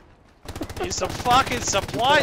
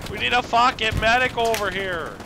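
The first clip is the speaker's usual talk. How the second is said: man down shout. Acted. Teammate down, calling for medic.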